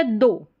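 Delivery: "दो" for though, gh silent; "ough" as long o. Shown as a demonstration. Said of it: "दो करके ओ sound आ रहा है".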